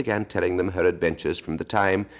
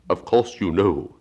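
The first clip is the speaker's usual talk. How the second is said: slow, melancholy turtle voice; Mock Turtle voice; 3 semitones higher, 4 dB louder, slower than usual. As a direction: drag it out like a sad old turtle.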